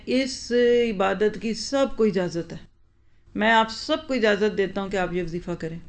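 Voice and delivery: lightly voiced preacher granting permission, slowed right down; mock cleric on the mic. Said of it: "mic پہ آ کے کہتے ہیں".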